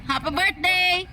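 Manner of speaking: slow coaxing. Shown as a demonstration. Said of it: "coaxing parrot to repeat".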